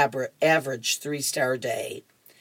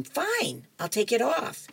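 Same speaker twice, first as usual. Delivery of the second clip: huffy giving in; 8 semitones higher, 4 dB quieter than usual. Acted. Opal giving in to Earl.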